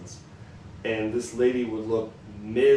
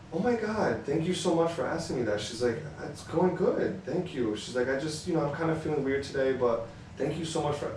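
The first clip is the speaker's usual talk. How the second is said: much higher, gushing cashier voice; grateful cashier; 5 semitones higher than usual. Retold or imitated. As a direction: imitate an overwhelmed, thankful cashier.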